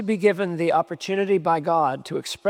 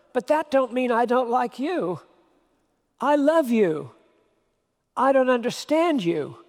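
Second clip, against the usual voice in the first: a hint of Shirley MacLaine, higher, earnest and sincere; 4 semitones higher than usual. Ginny tells Dave she loves him, sincere and higher. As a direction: say it plainly and lovingly, a bit higher. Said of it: "She says it with absolutely perfect sincerity".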